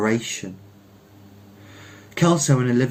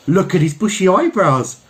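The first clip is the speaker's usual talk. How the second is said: high, louder silly woman's voice; foolish woman crying out; 8 semitones higher, 6 dB louder than usual. Acted. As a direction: gush like a foolish onlooker. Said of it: "cried a foolish woman".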